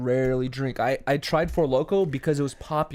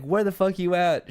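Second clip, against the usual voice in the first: lightly voiced lady, higher pitch; imitated Russian lady; 5 semitones higher than usual. Quoting the lady's shout-out, lightly imitated Russian lady. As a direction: mimic her calling out, lightly. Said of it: "She's like".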